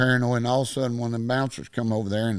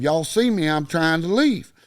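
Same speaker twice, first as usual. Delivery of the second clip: higher, slowed-down retold plea; exasperated protest; 4 semitones higher, 3 dB louder than usual. Teenager calling on onlookers during the fight, exasperated protest. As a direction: spell it out for witnesses.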